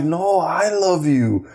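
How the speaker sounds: acted-out soothing of a crying child; retold heartfelt reassurance. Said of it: "I felt so bad".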